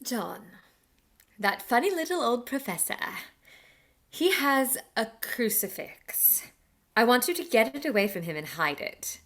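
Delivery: soft, urgent half-whisper, a bit quick; hushed plea. Acted. Mina quietly begs John to hide the crucifix. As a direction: keep it low so the professor can't hear. Secret plea to her husband.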